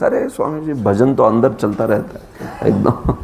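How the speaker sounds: fast, casual imitation of a layman; mock excuse. Teacher imitates people who claim constant inner chanting, fast. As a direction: breezily brush off the swami. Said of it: "They talk like this".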